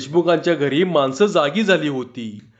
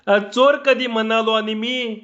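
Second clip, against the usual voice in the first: flustered reply; 6 semitones higher than usual. Acted. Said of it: "गडबडीने बोलला".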